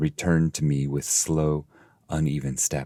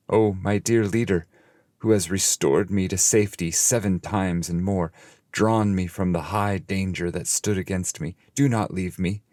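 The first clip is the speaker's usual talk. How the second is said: higher, louder pleading; fearful plea; 4 semitones higher, 4 dB louder than usual. Acted. Dante begs his leader not to leave, fearful. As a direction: beg him not to go, frightened. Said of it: "if I quailed at this".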